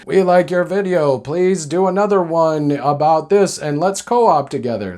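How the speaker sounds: stiff robotic monotone. Retold or imitated. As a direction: speak like a robot bot. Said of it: "That's my robot voice".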